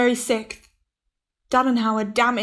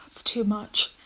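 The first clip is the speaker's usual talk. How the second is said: softer, breathed-out worry; whispered dismay; 5 dB quieter, slower than usual. Acted. Captain to his chief engineer, whispered dismay. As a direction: let the number sink in under your breath.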